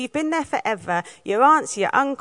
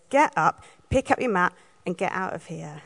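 with a bit of tone; 2 semitones lower than usual. Shown as a demonstration. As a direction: tell him bluntly to get up and go. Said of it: "when I just add that bit of tone".

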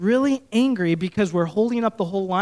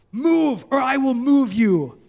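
angry threat; 2 semitones higher, 3 dB louder, slower than usual. Retold or imitated. Angry stranger threatening the pastor in a garage. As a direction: make it a threat to his face. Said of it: "he's like".

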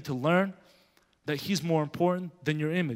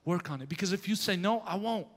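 God speaking; 5 dB quieter than usual. Retold or imitated. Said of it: "He said".

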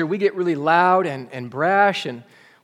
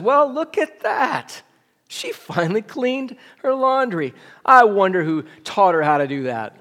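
smug, self-righteous; 4 semitones higher than usual. Retold or imitated. Young wife gloating to her husband about the neighbor's laundry, smug and self-righteous. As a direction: look down your nose at the neighbor. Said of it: "in a very smug, self-righteous tone".

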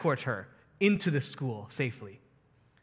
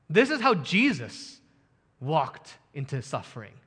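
usual speaking voice

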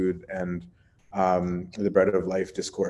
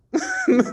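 P=-; a quick real laugh; short laugh; 3 dB louder than usual. Real, not acted. Brief laugh at the disciples' hasty no.

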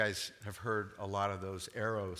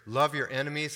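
"Love your enemies," louder, as a firm order; emphatic command; 3 semitones higher, 6 dB louder than usual. Acted. Preacher quoting Jesus's command to the congregation, emphatic. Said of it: "It's an emphatic command".

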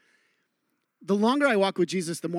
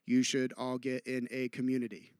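low, soft and even; understated, level suggestion; subdued example; 7 semitones lower, 7 dB quieter than usual. Shown as a demonstration. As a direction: say it quietly, pitched right down. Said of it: "give you an example".

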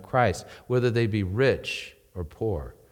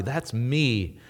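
normal talking voice

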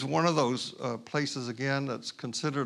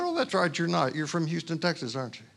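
knowing stranger; 3 semitones higher, faster than usual. Retold or imitated. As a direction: tease that you already know.

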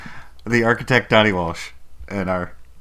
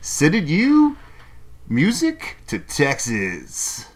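slow, announcer-style DJ intro; radio DJ voice; 5 semitones higher, much slower than usual. Pretend. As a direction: play a rooftop radio DJ.

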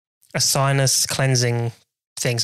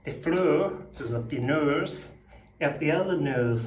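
mock British attempt; 7 dB quieter, slower than usual. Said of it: "let's see my attempt".

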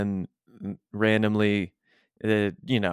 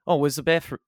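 higher attempted East London accent; 5 semitones higher than usual. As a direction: try an East London Cockney question. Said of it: "East London thing in my head now".

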